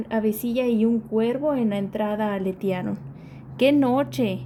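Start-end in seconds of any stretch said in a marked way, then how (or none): 3.6-4.4 rezonga. Acted. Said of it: "rezonga topo".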